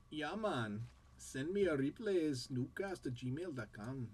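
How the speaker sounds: put-on lightly done Jamaican accent sliding into Indian. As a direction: start Jamaican, drift a little into an Indian accent. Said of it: "Jamaican into Indian".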